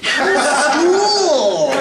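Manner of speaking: mock grandfather asking about school; grandpa voice. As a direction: ask it like a kindly old grandpa.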